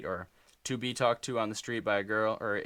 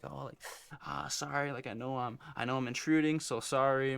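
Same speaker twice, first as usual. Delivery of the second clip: small, hesitant, higher apologetic voice; timid apologetic voice; 4 semitones higher than usual. Retold or imitated. Guy nervously apologizing to a girl, higher and timid. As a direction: apologize meekly as if intruding. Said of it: "Kinda like".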